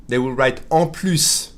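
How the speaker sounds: slow, careful "en plus"; slow teaching read. Shown as a demonstration. Teacher slowly spelling out en plus for students. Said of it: "teaching the spelling slowly".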